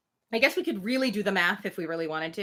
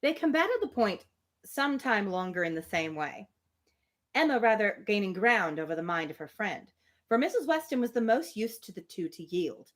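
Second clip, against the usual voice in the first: steady, even reading of period dialogue; reading a novel aloud; 3 semitones higher than usual. Acted. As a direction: read the two women's exchange like a classic novel. Narration of novel.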